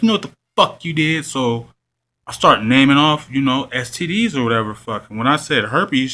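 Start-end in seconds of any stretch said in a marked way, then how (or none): 0.0-1.2 hostile accusation. Retold or imitated. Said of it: "And she's like".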